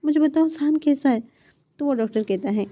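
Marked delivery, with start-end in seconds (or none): 0.0-1.2 higher, louder irritated demand; annoyed, demand an answer from the smiling doctor; worried husband snaps at the smiling doctor, louder. Acted. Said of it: "चिढ़ रहा था".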